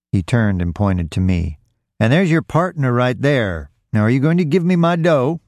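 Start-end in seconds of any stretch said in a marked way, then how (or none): 2.0-5.4 higher, rising indignation; angry demand. A narrator's reading. Robbed man points at Roy's partner, angry demand. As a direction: point out the accomplice, then demand, climbing in pitch.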